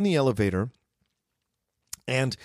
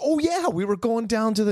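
higher, mock-innocent "oh, yeah"; retold sudden recollection; 9 semitones higher than usual. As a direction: lift it as if just remembering. Retold reply of sudden recognition.

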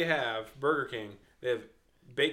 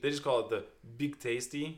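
a hint of a Russian accent. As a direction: say "Big Tasty" the Russian way. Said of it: "is the accent coming back?".

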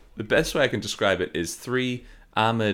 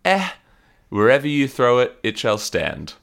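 put-on Brooklyn accent; 3 semitones higher, 5 dB louder than usual. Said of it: "vaguely, like, Brooklyn".

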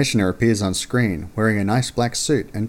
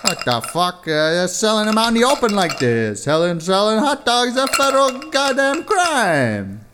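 shout; 12 semitones higher than usual. Acted. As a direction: yell it out in disbelief. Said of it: "You shout".

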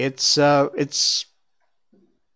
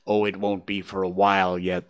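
reassuring; 4 semitones lower than usual. Acted. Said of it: "the first reassured him".

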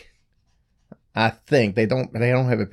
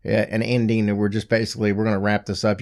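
worn-out hoarse voice. Real, not acted. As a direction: talk through a shot, hoarse voice. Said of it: "my voice is kinda shot".

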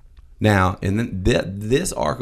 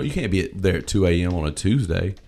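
ordinary talk, nothing marked

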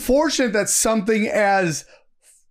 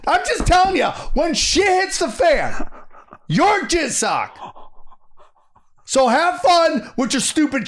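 higher pitched, worked-up rant; heated rant; 5 semitones higher than usual. Real, not acted. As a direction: get fired up and hammer the point. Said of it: "How do you, how do you really feel?".

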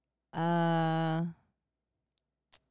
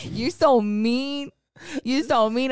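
mock whine; 4 semitones higher, 4 dB louder, much slower than usual. Mock whining at partner.

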